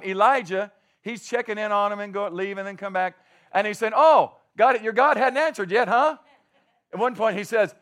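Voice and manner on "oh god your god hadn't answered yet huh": louder, higher mock concern; playfully needling. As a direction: taunt them with fake curiosity. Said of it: "he's mocking them".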